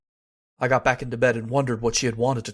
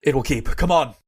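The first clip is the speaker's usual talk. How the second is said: urgent; 2 semitones higher, 6 dB louder than usual. Acted. Hurrying to the housekeeper's room.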